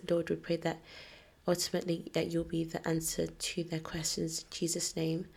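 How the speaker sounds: quiet earnest prayer; praying. Acted. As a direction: pray it softly and sincerely. Opens episode with prayer.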